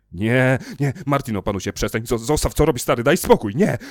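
yelling. A narrator's reading. Tom fleeing Martin's attack, frantic yell. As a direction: yell at him to stop. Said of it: "wrzeszczał Tom".

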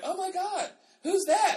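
very high-pitched mock gasping classmates; acted astonishment. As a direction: retell the crowd's shock, exaggerated and high. Acting classmates amazed at seeing him.

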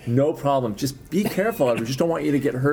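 high, kindly imitation of a policeman; friendly Canadian cop. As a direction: reassure like an over-nice Canadian officer. Retold friendly Canadian cop reassures driver.

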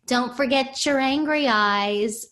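lightly mimicked kids' taunt, drawn out; slow mocking imitation of camp boys; teasing little boys. Boys taunting the camp counselor, mildly mocking. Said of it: "had all the little boys run".

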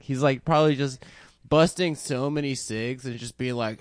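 normal talking voice

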